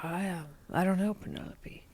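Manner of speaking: put-on faint Austrian accent, trailing to a murmur on Penelope; a half-hearted Austrian-accented tease; Arnold Schwarzenegger accent. Imitating Arnold Schwarzenegger teasing her, faint Austrian accent. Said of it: "I'm not doing his accent right".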